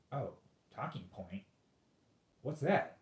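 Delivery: mock-innocent puzzled questioning, rising at the end; feigned ignorance. Debater playing dumb to an opponent, feigned ignorance. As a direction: play dumb, as if the term is new. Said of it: "just feign ignorance".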